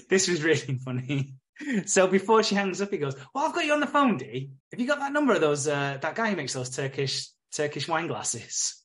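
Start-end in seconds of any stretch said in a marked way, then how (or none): 3.3-8.7 1 mock Darcy voice. Darcy voiced in retold scene.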